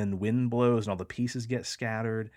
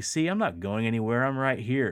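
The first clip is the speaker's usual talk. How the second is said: jeering, mocking, teasing, taunting tone. Recounting trying to stay asleep, the speaker retells answering a voice: retelling a mocking taunt. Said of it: "And then I say mockingly".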